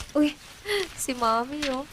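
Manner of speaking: laughing. Acted. Laughs at old photo.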